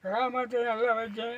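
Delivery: real tearful plea. Real, not acted. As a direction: speak through real crying. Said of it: "ரொம்ப அழுகாதீங்க". (அழுகையோடு)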